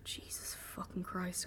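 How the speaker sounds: slow, breath-only oath; very soft, drawn-out curse; stunned whisper. A narrator's reading. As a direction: whisper it slowly, frozen in shock. Narrator faces the bloodied tiger.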